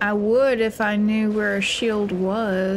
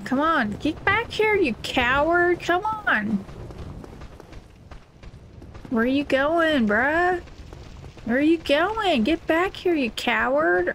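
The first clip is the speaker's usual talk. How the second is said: taunting; 5 semitones higher than usual. Real, not acted. Taunting a fleeing enemy.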